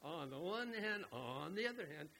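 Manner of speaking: hint of a mimicked debater's lilt; imitating Jewish debating talk. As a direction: weigh one side against the other, mimicking a debater. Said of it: "That's the way they talk".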